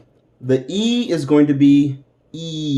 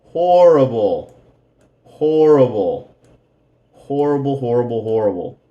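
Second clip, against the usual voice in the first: mock disgust; 3 dB louder than usual. Shown as a demonstration. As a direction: pull a face and groan out "Horrible". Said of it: "this and this, no".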